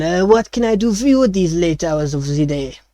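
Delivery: lightly voiced French chef searching for words; a chef fumbling for the Common word, French accent. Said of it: "he still speaks in a French accent".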